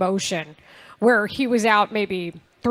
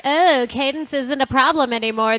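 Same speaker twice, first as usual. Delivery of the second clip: put-on basic white girl voice; 3 semitones higher than usual. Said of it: "that's your basic white girl voice".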